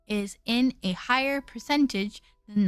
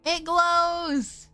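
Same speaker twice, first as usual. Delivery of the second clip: excited; 4 semitones higher than usual. Real, not acted. Discovery in game.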